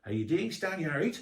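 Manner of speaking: light imitation of a Geordie school friend; Geordie accent. Geordie school friend greets Stan on American TV, lightly mimicked Geordie. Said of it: "first time they ever heard a Geordie accent".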